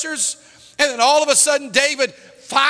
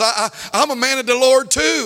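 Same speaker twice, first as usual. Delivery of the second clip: mock stutter getting into the sentence; imitated stuttering. Crying man pleads with the chaplain, mock stuttering. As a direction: stumble on the opening word. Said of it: "He started stuttering".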